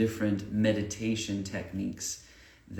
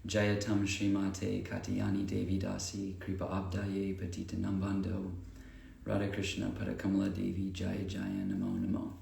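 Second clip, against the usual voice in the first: softly recited devotional invocation; quiet, even prayer recitation; 4 dB quieter than usual. Acted. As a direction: recite it evenly, as homage to your teachers.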